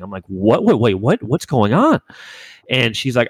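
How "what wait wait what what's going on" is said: bewildered, with swooping questions; stunned string of questions, pitch leaping up; retold shocked confusion. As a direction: replay your disbelief at bad news. Reacting to shocking phone news.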